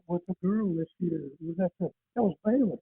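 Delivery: faint, off-mic phone voice; drifting away from the phone; phone held away. Real, not acted. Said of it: "talk into the phone".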